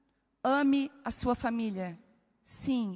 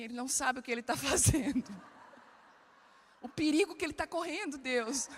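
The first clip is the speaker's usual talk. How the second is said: laughing prayer. Retold or imitated. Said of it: "eu assim".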